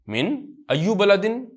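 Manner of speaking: slow, drawn-out reading with a rising end; slow reading drill. Shown as a demonstration. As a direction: read each word slowly for the class. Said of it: "teacher reads Arabic slowly aloud".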